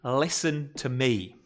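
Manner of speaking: very slow and soft; hushed, drawn-out plea to be heard; softly insist, word by word; quiet earnest appeal. Acted. God's closing appeal to Gideon.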